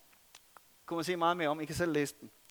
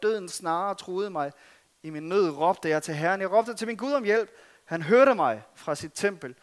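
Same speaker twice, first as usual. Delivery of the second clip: psalm reading. Acted. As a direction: call out each name of God with growing force. Reads psalm 18 aloud.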